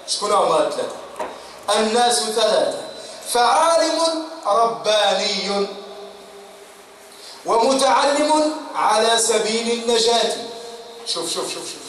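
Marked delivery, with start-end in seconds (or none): 1.8-10.4 slow, drawn-out solemn quote; solemn recitation. Shown as a demonstration. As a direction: intone each word with weight. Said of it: "quoting Ali's saying". (تلاوة مهيبة بطيئة)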